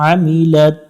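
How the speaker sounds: আমিলাত begun with a pressed throat আ; throat-pressed ain. Shown as a demonstration. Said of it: "আইন অক্ষর একটু গলা চেপে". (আমিলাত গলা চেপে আইন)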